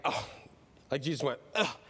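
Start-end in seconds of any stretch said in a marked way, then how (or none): 0.0-0.3 exasperated groan. Acted. Voices critics of Peter. 1.5-1.8 low, slow mock disappointment with groans; groan, then drag it out low; hammed-up weary disgust; exasperated. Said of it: "like this".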